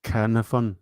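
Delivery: "Carnarvon" as KAIR-nuh-fun, stressed at the front; own guessed pronunciation. Shown as a demonstration. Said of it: "I would probably say".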